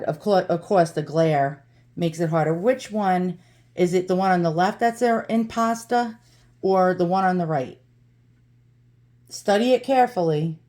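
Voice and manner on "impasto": impasta with a New York twang; light New York twang on impasta; New York accent. Shown as a demonstration. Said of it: "a bad New York accent".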